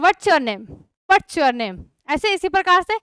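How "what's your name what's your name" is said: What's your name run together as one quick flowing phrase, whatcher name; native English flow. Shown as a demonstration. Teacher imitating how foreigners say What's your name. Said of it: "वो बोलते हैं".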